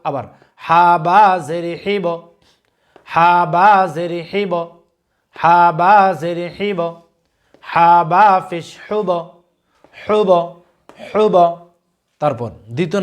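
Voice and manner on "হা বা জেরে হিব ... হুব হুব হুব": slow spelling chant, bouncing the final ব of হিব and হুব; measured teacher's recitation with a rebounding ব in হিব and হুব; qalqalah drill. Shown as a demonstration. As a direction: spell slowly and push an echo onto the ব in হিব, হুব. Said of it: "কলকলা অর্থ হচ্ছে ধাক্কা দিয়ে পড়া".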